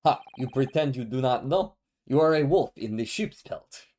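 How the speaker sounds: put-on accusing Russian-accented voice; lightly Russian. Russian guy accuses suspect of pretending, lightly Russian. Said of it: "We'll go very lightly Russian".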